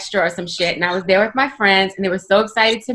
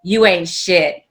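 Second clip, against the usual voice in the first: imitating a cuss-out; 3 semitones lower, slower than usual. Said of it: "he cussed me out".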